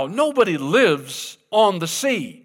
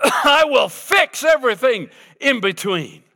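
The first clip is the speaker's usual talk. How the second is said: louder, laughing through it; laughing proclamation; 6 semitones higher, 3 dB louder than usual. Real, not acted. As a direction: laugh with joy as you proclaim. Laughing proclamation after whoop.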